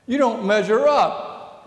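mild mock serpent taunt; tempting serpent. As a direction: sneer it like the tempter. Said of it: "the temptation voice says".

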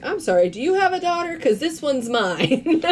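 mock indignant, slowing down on the last part; retold pissed-off mom. Retelling Chloe's mom confronting Eva, pissed off. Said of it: "and she's pissed".

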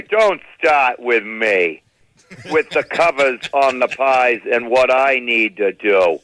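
slow, deliberate scolding mother; mother, slow and stern. Retold or imitated. Mother warning her son, slow and stern. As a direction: drag it out like a fed-up mom. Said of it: "my mother would say".

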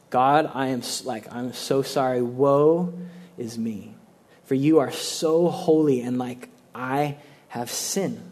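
whisper-near repentance before God; humble confession. Retold or imitated. Repentant prayer voiced.

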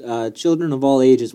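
slow circus ringmaster intro. Acted. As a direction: announce it like a big-top show. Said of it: "ladies and gentlemen, boys and girls".

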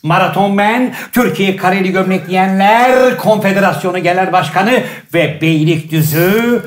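booming showman introduction, slowing on titles; announcer intro. Acted. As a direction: announce the guest like a ringmaster. Host's grand guest introduction.

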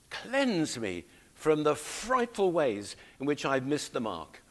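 lightly acted penitent plea; praying as David. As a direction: implore God to cleanse you, phrase by phrase. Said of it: "as if you were praying it for yourself".

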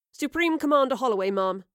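crisp soldier reporting to commander; parroting salute. Acted. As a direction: snap it out at attention. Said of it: "Yarrow parroted along with her salute".

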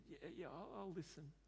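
soft, hesitant agreement, mildly tearful; tearful, retold. Crying client agrees to listen to Jesus, soft and hesitant. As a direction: lightly imitate someone agreeing while crying. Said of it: "he's crying and he said".

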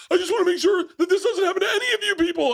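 high, laughing movie quote; mock-heroic quote through laughter; quoting The Rock. Retelling The Rock's line on a plane, laughing. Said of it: "he goes".

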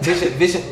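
put-on "Vince Young" run together as "Vishuh", twice; mock garbled "Vince Young", consonants swallowed; imitating slurred name. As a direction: mumble "Vince Young" as one quick blur. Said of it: "you said that shit".

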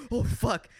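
high, loud horrified curse; as if the room starts spinning; dismayed oh fuck. Retold or imitated. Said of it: "I think I said it out loud".

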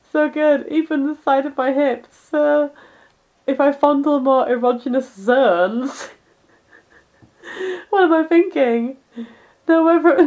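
half-hearted flustered heroine; light mock manga girl reading; lightly voiced manga girl. Voicing manga girl's monologue.

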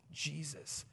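slow, breathy whisper of comfort; hushed whisper. Acted. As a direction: whisper it as a sacred secret. Tender hushed sermon moment.

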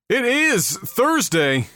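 slow announcer. Shown as a demonstration. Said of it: "That's not what I wanted".

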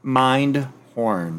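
each word set apart; spaced-out words for someone typing; careful enunciation. Real, not acted. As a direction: say the title slowly and distinctly. Correcting misheard title for a search.

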